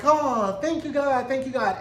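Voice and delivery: high, gushing mock relief; retold sigh of relief, high-voiced; imitated relief. Voices Lydia finding Janine alive.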